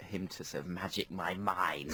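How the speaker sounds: joking hushed whisper. Real, not acted. Host half-jokingly whispering about Darren Brown, hushed. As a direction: whisper it as if Darren might be listening. Fearing Darren may overhear.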